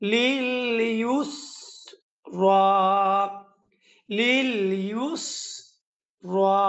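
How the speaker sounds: লিল ইউসরা said with a clear ya sound, not waw; correct lil yusra. Shown as a demonstration. Teacher models the correct reading of লিল ইউসরা with a clear y. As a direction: stretch ইউসরা slowly with a clear y. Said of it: "সেই উচ্চারণটা এখানে হবে".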